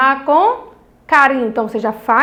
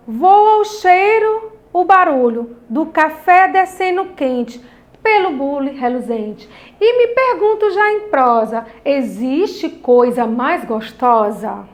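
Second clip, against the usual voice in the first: poem reading; slower than usual. Shown as a demonstration. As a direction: read the poem to the children with feeling. Teacher reads poem aloud. (leitura de poema com entonação)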